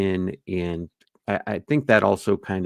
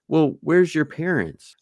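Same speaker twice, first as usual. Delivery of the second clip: higher questioning voice; suspicious homeowner; 8 semitones higher, 3 dB louder than usual. Retold or imitated. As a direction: challenge them from the doorway. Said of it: "So you might say".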